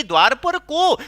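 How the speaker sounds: lightly acted call through a door; Radha calling out. Radha asks who is knocking, lightly calling out. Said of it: "अंदर से राधा रानी बोलती हैं".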